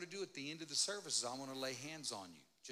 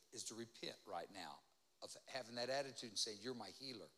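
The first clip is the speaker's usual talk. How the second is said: hushed call to repent; 5 semitones lower, 6 dB quieter than usual. Acted.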